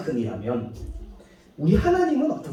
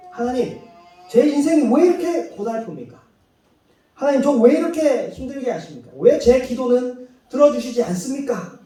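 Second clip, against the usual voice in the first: whiny plea, higher and pleading; complaining to God; 5 semitones higher than usual. Retold or imitated. Believer complaining to God in prayer, whiny and aggrieved. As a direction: grumble at God like a hurt child. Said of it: "라고 하나님을 원망합니다".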